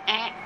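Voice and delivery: a tiny grumble before the bite; imitating the cat's mild warning noise; little cat warning. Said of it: "just a little".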